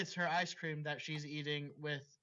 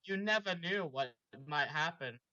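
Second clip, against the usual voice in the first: dramatic read-aloud of a fanfic; story reading. Acted. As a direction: narrate it like the opening of a novel.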